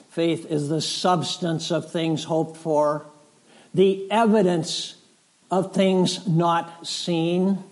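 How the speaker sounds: reading the Bible aloud to the congregation, measured; scripture reading. Acted. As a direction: read the verse with weight. Reads Hebrews aloud.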